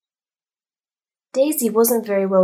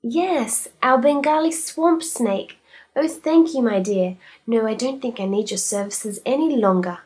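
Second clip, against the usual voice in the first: higher, louder proud lady; delighted lady client; 3 semitones higher, 4 dB louder than usual. Acted. Mrs Humphreys thanking Daisy, delighted. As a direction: beam as she thanks Daisy.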